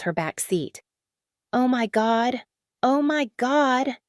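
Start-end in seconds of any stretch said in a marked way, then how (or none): 1.5-4.0 high and thin, panicked. A narrator's reading. Driver panicking at bloody passenger, high and thin. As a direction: voice jumps up in fear. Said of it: "Amara's voice came out high and thin".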